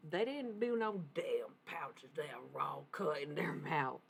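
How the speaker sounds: slow, lightly put-on Southern drawl; Southern accent. Channeling a tobacco-dipping Southerner, slow mild Southern accent. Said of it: "channeling somebody from the South".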